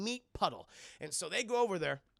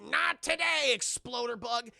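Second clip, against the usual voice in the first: high, loud action-hero shout; heroic battle cry; 5 semitones higher, 6 dB louder, slower than usual. Retold or imitated. Rob facing the bug with an axe, loud battle cry. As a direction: bark it like a movie hero.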